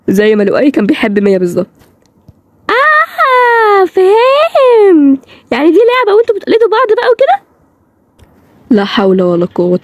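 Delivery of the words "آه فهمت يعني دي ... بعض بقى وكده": high, drawn-out fake crying; hammed-up sobbing voice, much higher and stretched out; mock wail. Mock breakdown on learning the truth.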